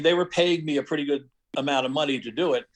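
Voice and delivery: ordinary talk, nothing marked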